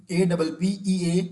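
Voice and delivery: letters spelled slowly one by one; teacher dictating letters slowly; slow spelling out. Shown as a demonstration. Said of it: "अपीयरेंस की spelling क्या होगी?".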